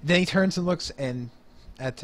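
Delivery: usual speaking voice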